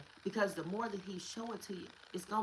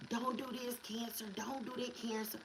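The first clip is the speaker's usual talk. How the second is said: God warning; 5 semitones higher, 4 dB quieter than usual. Retold or imitated. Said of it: "He barking at your Cancer".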